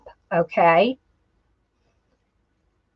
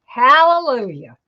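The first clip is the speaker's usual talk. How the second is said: relieved cheer; 5 semitones higher than usual. Real, not acted. Crafter cheering when the bow finally holds, excited exclamation. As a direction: blurt it out in relief.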